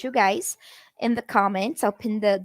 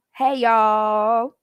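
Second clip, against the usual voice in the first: casual greeting; 4 dB louder than usual. Shown as a demonstration. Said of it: "I'm sure you've all heard this".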